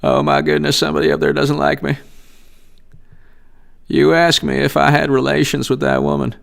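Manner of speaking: lightly voiced politician on the defensive; Bill Clinton. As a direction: gently impersonate a politician protesting his honesty. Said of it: "my Bill Clinton".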